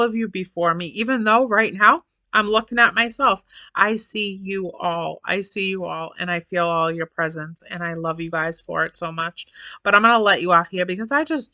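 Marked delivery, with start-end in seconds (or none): 3.7-7.9 tender. Real, not acted. Tender address to viewers.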